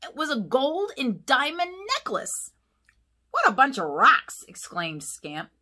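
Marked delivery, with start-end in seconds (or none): 3.3-4.4 louder, higher, thrilled; excited pup. A narrator's reading. Puppy marvels at the jewels, loud and excited. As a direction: gasp out the find.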